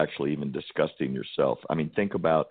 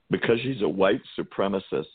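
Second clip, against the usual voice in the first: slightly raised, barely straight-faced; scornful mock-serious; 3 semitones higher than usual. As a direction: say the accusation as if it's absurd. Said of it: "can't even say it with a straight face".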